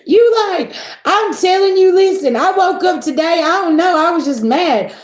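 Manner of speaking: high, loud and heated; blurting out how mad she woke up; excited rant, high and loud; worked-up venting. Real, not acted. Worked up telling her morning.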